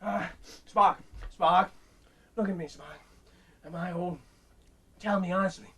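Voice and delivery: lightly voiced aged Kirk begging; old Kirk. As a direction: plead like a frail old captain.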